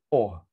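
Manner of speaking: "o" as an open "aw", the sound of letter O. Shown as a demonstration. Trainer modelling letter O for teachers, "o" said as "aw". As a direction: sound out "o" as a lone open vowel. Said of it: "Write letter O".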